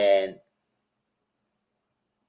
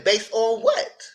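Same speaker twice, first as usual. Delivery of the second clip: high, slow questioning; drawn-out challenge; 11 semitones higher, much slower than usual. Retold or imitated. To the castmate, a slow high challenge. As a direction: stretch the question out, doubtful. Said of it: "It was a legitimate question".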